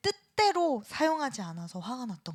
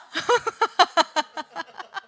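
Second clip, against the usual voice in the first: loud, high laugh that trails off; real bursting laugh; hearty laughter; 8 semitones higher, 9 dB louder than usual. Real, not acted. Laughs after asking everyone to share.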